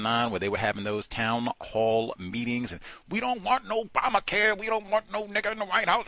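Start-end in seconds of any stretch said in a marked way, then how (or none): 3.1-6.1 high, mocking protester voice, very much higher; mocking angry protesters. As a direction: parody the angry white protesters, far up in pitch.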